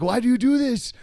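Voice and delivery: high, loud mock exasperated driver. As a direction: whine at him in frustration. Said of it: "He was like".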